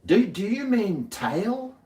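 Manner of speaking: high, slow, prim computer voice; Google voice. Retold or imitated. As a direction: play a fussy search engine. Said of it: "and it".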